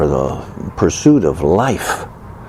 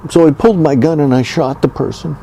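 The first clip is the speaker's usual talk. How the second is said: mock defendant; 4 semitones higher than usual. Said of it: "say to a court".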